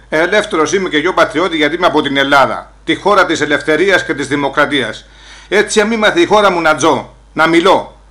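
loud, emphatic patriotic declaiming; proud declaration. Acted. Immigrant telling his compatriot he is free to speak, proud declaration. Proud speech on Greece and freedom.

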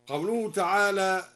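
ordinary talk, nothing marked

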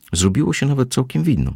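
usual speaking voice

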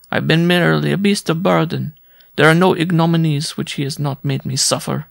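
high, lamenting woman's voice; suffering woman visitor. A narrator's reading. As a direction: lament your hard life in a high voice.

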